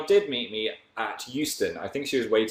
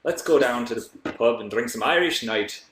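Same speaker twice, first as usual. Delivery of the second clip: mock Irish accent; 3 dB louder than usual. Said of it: "Try to speak Irish".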